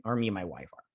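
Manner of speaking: unvoiced whisper, tacked on; a hushed aside to the viewers. Real, not acted. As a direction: breathe it as an afterthought. Quick aside about parenting.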